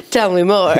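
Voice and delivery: mock eager, laughing; laughing tease. Real, not acted. Teasing the cohost to keep reading, laughing. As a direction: push it out with a laugh.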